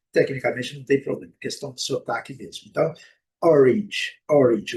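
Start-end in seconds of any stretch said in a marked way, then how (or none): 3.4-4.8 orange said OR-inge, louder and falling. Shown as a demonstration. Teacher repeats the correct form for learners, A as I. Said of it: "o A com som de I".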